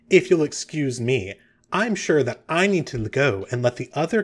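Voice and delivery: mildly pompous speech, with deliberate pauses; self-important grandstanding. Acted. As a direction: pause for effect before key words. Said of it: "she sort of pauses for effect".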